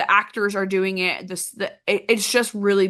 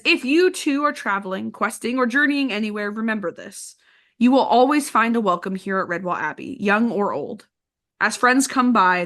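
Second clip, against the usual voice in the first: warm, welcoming book reading; reading a quote aloud. Acted. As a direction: read it like a welcome from the abbey. Reads closing quote from the book.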